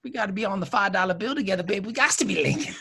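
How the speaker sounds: quick patter dropping into a whisper; lightly hammed-up seducer. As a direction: sweet-talk her, ending in a mock whisper. Hammy seducer, breaking into whisper.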